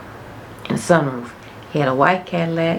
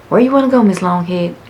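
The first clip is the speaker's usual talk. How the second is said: high, louder playful dad voice; dad teasing; 4 semitones higher, 6 dB louder than usual. Retold or imitated. Dad asking his daughter where to eat, high and playful. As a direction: call her by the nickname with a grin.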